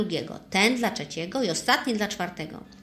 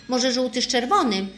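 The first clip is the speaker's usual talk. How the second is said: mildly squealed, higher and louder; excited monkey piping up; 4 semitones higher, 6 dB louder than usual. A narrator's reading. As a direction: pipe up eagerly with an idea. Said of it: "zapiszczała podekscytowana małpa".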